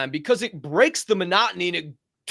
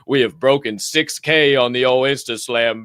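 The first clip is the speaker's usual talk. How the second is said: excited; 4 semitones lower, 6 dB louder than usual. Real, not acted. Celebrating follower milestone.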